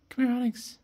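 high coaxing call; calling the cat. Real, not acted. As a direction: coax the cat over with a high sing-song. Calling Onyx again.

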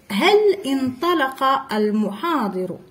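انطلق joined to هل without a glottal stop; linking hamza. Shown as a demonstration. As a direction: link هل into انطلق. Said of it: "ما نطقناش هاد ال".

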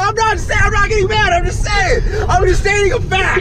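high, loud protesting; defensive. Real, not acted. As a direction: push back hard, voice up and loud. Defensive argument over sleeping.

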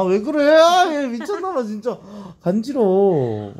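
high squealy ticklish protest; being tickled. Real, not acted. Being sniffed, says ticklish. (간지러워서 몸부림치며 항의하듯)

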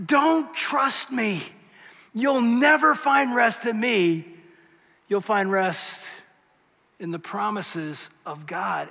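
slow, fading heartfelt plea; slow, softening sincere warning; earnest plea. Pretend. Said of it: "is saying to us on it".

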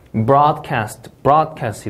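broadcast, strong BROAD and falling cast; stressed syllable in broadcast. Shown as a demonstration. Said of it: "이음절 강세가 되겠고요".

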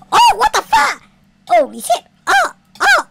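screamed very high and loud; loud panicked yell; terrified scream. Real, not acted. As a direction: shriek in terror. Jump scare.

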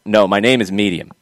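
MEDIUM as MEE-dee-um, standing in for Miriam; pronounced like medium. Retold or imitated. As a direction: say the name Medium with a D for the R. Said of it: "have her tell people".

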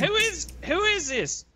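high and slow, stunned; stunned question after the shot; shaken. Acted. Cop shaken after the shooting, high and slow.

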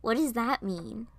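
slow, stuttered disbelief; drawn-out incredulous question; incredulous half-laugh. Acted. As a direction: question it slowly, as if absurd. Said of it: "I laughed".

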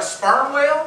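slow, stretched out punchline; leaning hard on the word whale; drawn-out. Shown as a demonstration. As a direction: drag out sperm whale. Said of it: "slow drawn-out punchline".

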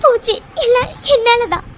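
crying, broken voice; tearful self-blame. Acted. Mitra blames herself in tears. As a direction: weep out the regret. Blaming herself after failure.

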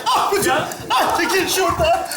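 high, frantic alarm broken by yelps; panicked cries. Acted. Man trapped with huge spider calling his friend, high panic. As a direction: wail in terror as it creeps closer. Spider approaching him in tent.

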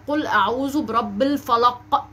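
slow recital "قل أعوذ برب الفلق" with popped final q; measured recitation stressing q in "قل" and "الفلق"; emphatic qaf. Shown as a demonstration. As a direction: draw out "الفلق" and release the q. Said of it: "جمل بحرف القاف".

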